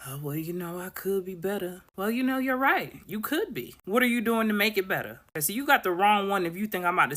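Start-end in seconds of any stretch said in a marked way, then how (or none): 0.1-1.8 mopey sigh. Retold or imitated. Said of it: "here's my response". 2.0-5.2 high, pointed, no-nonsense reply; sassy comeback. Retold or imitated. Answering a self-pitying friend, sassy pointed comeback. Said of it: "here's my response".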